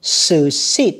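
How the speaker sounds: "Succeed" said slowly, second syllable SUC-CEED leaned on; stress on second syllable. Shown as a demonstration. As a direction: stretch "Succeed", landing on CEED. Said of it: "âm hai". (đọc chậm "Succeed", nhấn âm tiết thứ hai)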